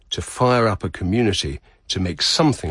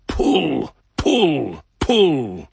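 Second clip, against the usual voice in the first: raised, higher-pitched drawn-out call; master of ceremonies' call; 7 semitones higher, 3 dB louder, much slower than usual. Retold or imitated. Master of ceremonies urging the rope pullers to give it their all, calling out. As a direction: call out each heave, high and long, falling away. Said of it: "the call of the Master of Ceremonies".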